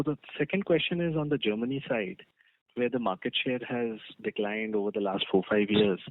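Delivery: loud and clear into the phone. Real, not acted. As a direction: raise your voice so they can hear. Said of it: "Could you please speak a little louder?".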